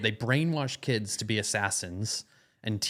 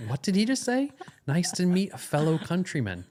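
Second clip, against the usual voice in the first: high-pitched, puzzled repeat of his greeting; baffled echo; 6 semitones higher than usual. Retold or imitated. Puzzled listener repeating the stranger's greeting to himself, baffled. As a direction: echo it back in mild disbelief, pitched up. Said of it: "And I was like".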